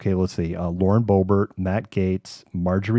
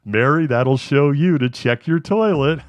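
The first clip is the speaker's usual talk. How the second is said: newscaster sign-off; 7 semitones higher, 4 dB louder than usual. Shown as a demonstration. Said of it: "Was that very newscaster-ish?".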